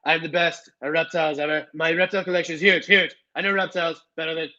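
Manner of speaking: a weak attempt at Trump bragging; Donald Trump impression. Streamer tries a Trump impression for chat, lightly voiced. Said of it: "I cannot do a Donald Trump impression".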